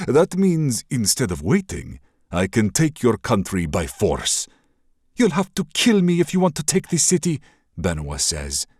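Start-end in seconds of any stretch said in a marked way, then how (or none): 0.1-4.5 louder, gloating villain prince; menacing prince. Acted. Raider prince gloats to the princess, a touch louder. Kasim's threat. 5.2-7.4 put-on high, loud, defiant young princess. Princess defies the raider prince, loud and high.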